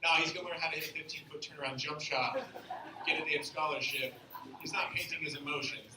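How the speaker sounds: lightly voiced dad, dismissive; disapproving dad. Dad talking to mom about art school, disapproving. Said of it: "I overheard my dad talking to my mom".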